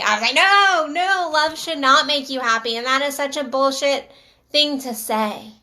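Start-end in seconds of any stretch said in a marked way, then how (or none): 0.3-2.8 emphatic objection. Retold or imitated. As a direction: push back hard on the first no, then ease off. Retold objection to the gentleman's claim.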